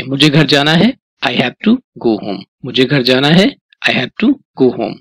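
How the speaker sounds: Hindi line rising, then "I have to go home" slowly, each word spaced; slow repeat-after-me drill. Shown as a demonstration. Teacher to students practising speaking, slow drill. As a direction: drill it slowly so the class can echo. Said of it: "आपको बोलना है मेरे साथ में ना".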